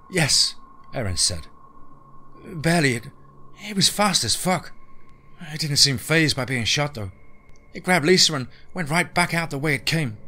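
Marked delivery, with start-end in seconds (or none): 0.1-0.5 high-pitched female character; pitched-up reply as a woman; woman's voice. Acted. Narrator voices Erin answering. 2.4-10.2 high-pitched female character; pitched-up voice for a female role; woman's voice. Acted. Narrator voices Erin recounting attack.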